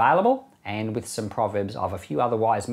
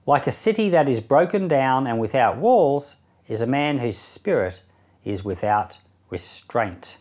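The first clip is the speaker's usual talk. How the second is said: measured, solemn reading of proverbs with long pauses; scripture reading. Acted. Reading Proverbs aloud to the listeners, in a measured solemn voice.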